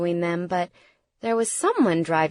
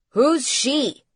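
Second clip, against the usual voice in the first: higher-pitched demand; tense, raised query; urgent question; 6 semitones higher, 4 dB louder than usual. A narrator's reading. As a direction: cut in wanting an answer. Father urgently questions panicked son.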